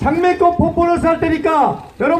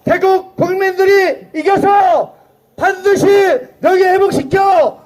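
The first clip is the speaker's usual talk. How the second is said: rally shouting. Acted.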